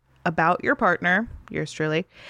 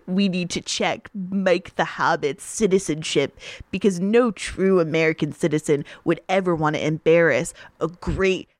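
slight Trump voice, barely changed; mock-pompous patriot rant with laughs; Trump impression. Cohost reluctantly tweets as Trump about Amy, understated Trump voice. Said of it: "You sound like Mort".

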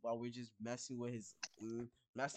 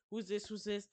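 mildly acted freak-out, higher pitched; 6 semitones higher than usual. Sister demanding who is calling, mock freaking out. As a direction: imitate a rattled sister repeating her question. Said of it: "the sister's like freaking out".

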